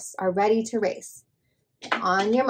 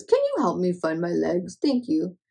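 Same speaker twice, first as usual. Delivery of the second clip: a hint of a big gentle cow; 5 semitones lower than usual. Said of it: "Cow says".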